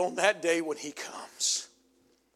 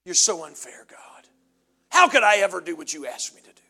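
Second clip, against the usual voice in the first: whiny complaint; 9 dB louder than usual. Acted. Complaining unfaithful man.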